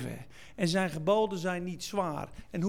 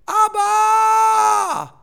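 high, long-held cry at full volume; full shout; 12 semitones higher, 13 dB louder than usual. Shown as a demonstration. Preacher shows how the Spirit shouts, a long loud cry. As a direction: shout it out and stretch the last vowel. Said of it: "The Spirit shouts".

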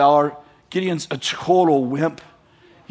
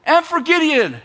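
loud, high, drawn-out war cry; full-voiced rallying cry, stretched out; battle shout; 9 semitones higher, 8 dB louder than usual. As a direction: shout it like an army charging. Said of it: "the people shout".

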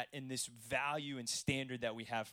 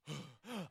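mock gasp; 8 dB quieter than usual. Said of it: "I'm out of breath".

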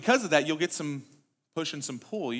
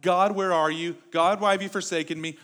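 mild mock lament; 3 semitones higher, 6 dB louder than usual. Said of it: "David... saying things like".

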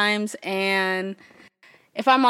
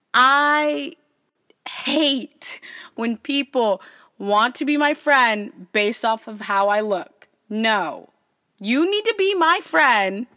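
menacing, slow and pushy; evil; slower than usual. Real, not acted. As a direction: lay down the rule like a villain. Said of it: "why do I sound so evil?".

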